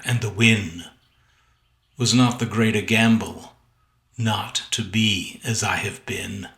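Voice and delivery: poem recitation. Acted. Poet reads his sonnet aloud.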